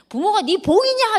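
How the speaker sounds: a mother losing her temper, imitated; mock scolding. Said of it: "뚜껑 열려서".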